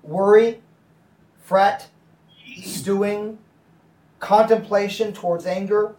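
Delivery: each word set apart by pauses; measured, spaced-out reading; slow deliberate list. Shown as a demonstration. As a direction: let each word land on its own. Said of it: "So that's why I put it in there".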